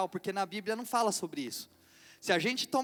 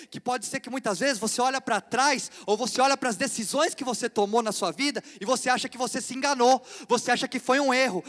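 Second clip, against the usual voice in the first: louder, building preacher's appeal; preaching climax; 2 semitones higher, 5 dB louder than usual. Acted. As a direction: drive each "foi Deus" home to the church.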